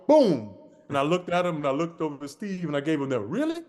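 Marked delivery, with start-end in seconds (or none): 3.2-3.6 high, incredulous really; mock disbelief, pitched well up; a retold, hammed-up really; disbelieving. Disbelieving look at Steve.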